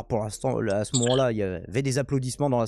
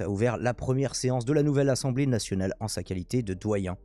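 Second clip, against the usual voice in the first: measured news read, headlines pitched up; news article read aloud. Real, not acted. (lecture d'article, ton de journal)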